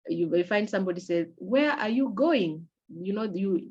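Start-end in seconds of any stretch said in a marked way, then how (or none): 1.4-2.7 Where are you going? slow, rising on going; question intonation. Shown as a demonstration. Teacher showing how going rises in a question. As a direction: lift the pitch on going to ask. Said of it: "the going has a higher pitch".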